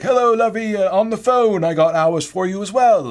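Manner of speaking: put-on high, cheery older British woman; Joan. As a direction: chirp it loudly like a sweet British lady. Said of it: "sweet older British woman named Joan".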